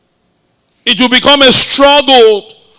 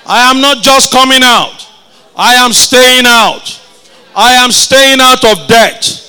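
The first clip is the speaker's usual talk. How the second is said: like you mean it. Shown as a demonstration. Preacher urging the congregation to declare it, with conviction. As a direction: proclaim it as if your heart believes it. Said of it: "Come on, say it like you mean it".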